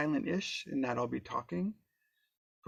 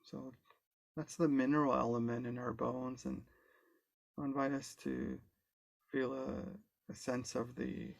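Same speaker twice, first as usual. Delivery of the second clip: calm, unhurried guide with long pauses; guided meditation. Real, not acted. Guide leading an online group into body awareness, calm guided meditation. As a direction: ease them gently through it, leaving space between phrases.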